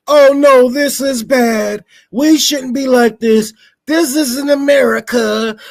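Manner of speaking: slow, hammed-up pearl-clutching protester; mock hand-wringing. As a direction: drag it out like a fretful liberal. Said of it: "a couple of white people out there with their signs".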